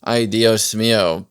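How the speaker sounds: mock Dominican Spanish accent, badly done; a clumsy stab at a Dominican accent; butchered Dominican accent. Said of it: "butchers a Dominican inflection".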